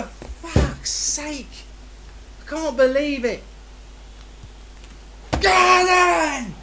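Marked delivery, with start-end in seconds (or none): 5.4-6.5 frustrated shout. Real, not acted. Yelling at the game.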